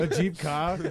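put-on Boston accent, dropped r in car. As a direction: say "A Jeep car" like a Bostonian, "cah". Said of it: "With a, a Boston accent".

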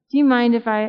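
ordinary talk, nothing marked

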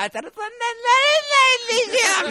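high, loud mock old-man chuckle; old man laughing. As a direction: imitate an old man amused by a joke. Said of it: "みたいな感じで笑ってくれたんだけど".

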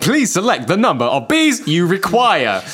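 slow, formal automated prompt; recorded menu asking politely; phone menu voice. Pretend.

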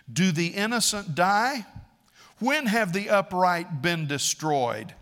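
preacher acting out an accuser; challenging questions. Preacher voices Eliphaz confronting Job.

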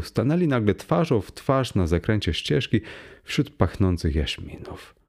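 plain reading voice

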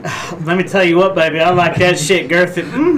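light girly voice put on; man doing a woman's voice.

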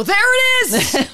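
put-on old man, high and slow; slow, high-pitched old grandpa exclamation; great grandpa voice. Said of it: "that's the great grandpa voice".

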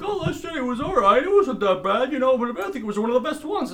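high, whiny nerd voice; nerdy fan voice. Retold or imitated. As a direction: play a defensive nerd. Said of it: "All the Star Wars geeks are like".

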